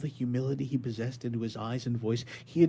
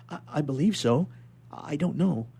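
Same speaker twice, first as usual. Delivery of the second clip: higher, louder faltering answer; hesitant stammer; 5 semitones higher, 5 dB louder than usual. Acted. Prisoner faltering before the inspector, stammering. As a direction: stumble over the words.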